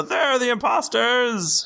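high, slow guard yell. Acted. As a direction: cry out like an alarmed guard. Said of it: "they go".

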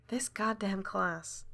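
slow, soft grumble; muttering to herself. Acted. Teacher sighs about the class, muttering slowly to herself. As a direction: mutter it under your breath, slowly. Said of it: "mutters to herself".

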